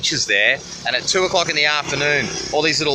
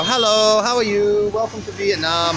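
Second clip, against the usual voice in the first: lightly imitating a cheerful local, pitched higher; mock-friendly roadside hello, sing-song and higher; friendly local greeting; 7 semitones higher than usual. Locals riding up beside him on the highway, higher cheerful greeting. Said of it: "and they go".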